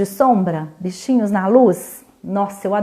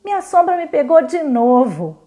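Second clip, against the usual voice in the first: put-on little girl voice; 4 semitones higher than usual. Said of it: "exclamava Olivia".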